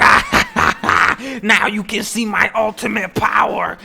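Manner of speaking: loud maniacal laugh into booming boast; gloating villain. Acted. Alien Steinfeld revealing his power, gloating villain shout. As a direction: cackle high, then proclaim like an evil boss.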